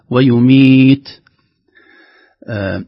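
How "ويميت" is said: loud ويميت ending on plain breath after ت; air-only ta. Shown as a demonstration. Teacher gives the correct ending after the errors, air only. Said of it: "فقط هواء".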